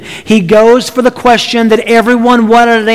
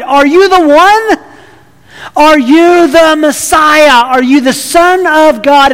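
raised, insistent questioning; pressing question; 5 semitones higher than usual. Acted. Caiaphas confronting Jesus at the critical point, insistent. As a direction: drive the question home.

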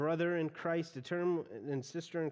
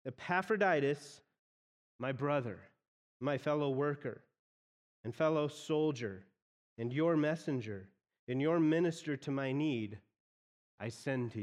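each title set apart with pauses before I send to you; reordered emphasis. Shown as a demonstration. Preacher rereading Paul's reordered verse, measured and deliberate. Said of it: "it's actually like he says".

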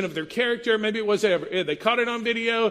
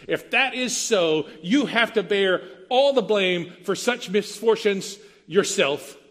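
stern father; 4 semitones higher than usual. Retold or imitated. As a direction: scold like a disappointed father. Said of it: "a dad to a son".

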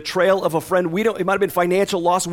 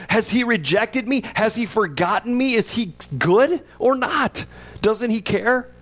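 raw questioning; 5 semitones higher than usual. Retold or imitated.

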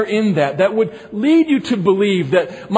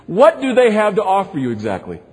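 impatient, pressing question; a touch of exasperation, pushing the point; a little exasperated. Shown as a demonstration. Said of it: "might sound like a little bit of exasperation in it".

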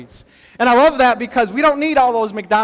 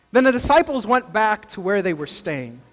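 scripture reading. Acted. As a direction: read the passage gently to the congregation. Reads the scripture passage aloud.

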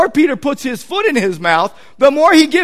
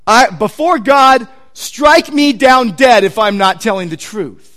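oath-swearing; 3 dB louder than usual. Acted. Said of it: "to invoke a curse on himself".

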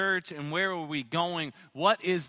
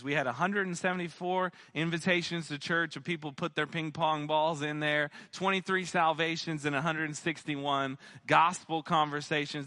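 losing voice. Real, not acted. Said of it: "They think I'm losing my voice".

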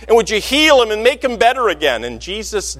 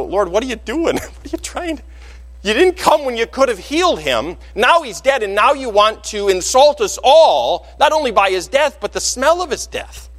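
incredulous sisters; 4 semitones higher than usual. Acted. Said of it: "for Martha and Mary".

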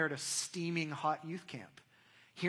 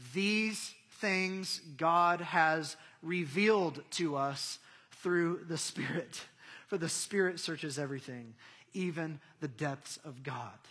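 slow, weighty Bible reading; deliberate proclamation, easing at the end; solemn scripture reading; 4 dB louder, slower than usual. Real, not acted. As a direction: read it slowly, setting each word apart. Reads scripture aloud.

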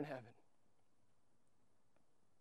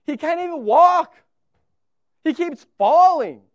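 loud, higher, scornful dad complaining to his wife; hammed-up scorn at the stumbling son; mock disappointed father; 8 semitones higher, 11 dB louder than usual. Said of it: "what if I would have looked to my wife and said".

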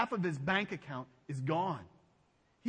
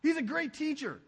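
wide-eyed wow, higher and louder; amazed onlooker; 8 semitones higher, 6 dB louder than usual. Acted. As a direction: gasp at the miracle like a fan. Looking at his miracles and go.

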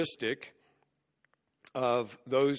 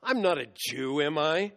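mildly acted disdain, as a rhetorical question; contemptuous reply; 3 semitones higher than usual. Preacher voicing Pilate's reply to Jesus, mildly contemptuous. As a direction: brush off the very idea with a touch of contempt. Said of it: "Pilate gives this contemptuous reply".

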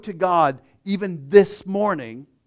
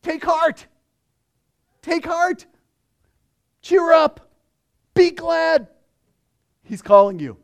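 high, loud eager calls; excited crowd; 11 semitones higher, 6 dB louder than usual. Retold or imitated. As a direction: cheer him on like an eager crowd. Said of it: "The crowd said to him".

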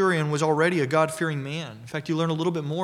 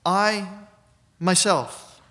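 "I" punched out, set apart by a short pause before "myself"; emphatic I; much slower than usual. Shown as a demonstration. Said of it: "is emphatic".

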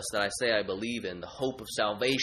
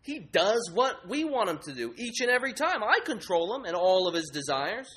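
higher, louder, domineering idol; people idol; 5 semitones higher, 3 dB louder than usual. Acted. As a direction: lord it over the others. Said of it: "The people idol say".

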